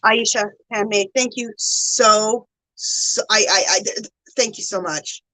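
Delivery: halting, moved thanks; close to tears. Real, not acted. Streamer overwhelmed by a viewer's gift, close to tears. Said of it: "gonna start making me cry".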